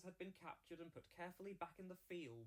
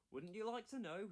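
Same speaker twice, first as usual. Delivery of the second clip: higher, playful teasing question; 6 semitones higher, 5 dB louder than usual. Acted. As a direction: tease the curious engines. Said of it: "he teased".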